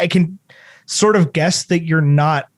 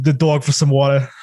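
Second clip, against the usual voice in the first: a slight Southern hill-folk twang slipping in; Southern hill-folk accent; 2 semitones lower than usual. Shown as a demonstration. Showing his friends his dad's Southern hill-folk accent, lightly done. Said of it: "sometimes I'll talk like a, w-, one of the hill folk".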